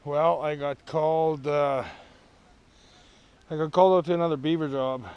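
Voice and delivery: winded, gasping between phrases; puffing after a hard hike in; out of breath. Real, not acted. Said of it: "Sorry, I'm out of breath".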